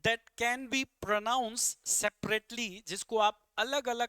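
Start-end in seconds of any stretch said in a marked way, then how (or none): 0.1-2.9 very slow, louder reading of the question; slow, deliberate question reading; slow read-aloud. Shown as a demonstration. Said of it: "कह रहा है".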